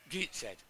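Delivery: Gateshead with an "ee" in the first syllable, like "Geetsed"; dialect Gateshead. Retold or imitated. Imitating aunt's boyfriend from Gateshead, dialect "Geetsed" for Gateshead. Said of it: "I couldn't understand a word he said".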